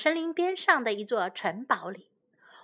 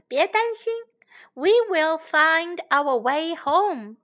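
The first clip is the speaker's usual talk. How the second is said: reassuring prince; 4 semitones higher than usual. Acted. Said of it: "王子说".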